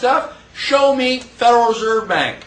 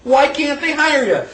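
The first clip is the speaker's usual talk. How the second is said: ordinary delivery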